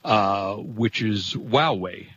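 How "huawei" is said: Huawei said slowly as WAH-way; correct Huawei pronunciation. Shown as a demonstration. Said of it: "have me pronounce this correctly".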